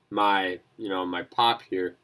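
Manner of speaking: talking between sips of soda; words around a sip of pop; while sipping a drink. Real, not acted. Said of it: "I'm sorry I'm drinking".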